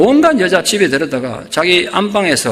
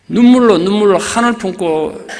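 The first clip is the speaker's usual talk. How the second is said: preacher's sudden loud cry; rising preaching cry; 2 semitones higher, 3 dB louder than usual. Acted. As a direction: cry out the tears then draw it out. Preacher dwelling on her tears.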